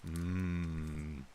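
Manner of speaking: talking while chewing; words around a bite of food; mouth full. Real, not acted. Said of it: "Mukbang stream".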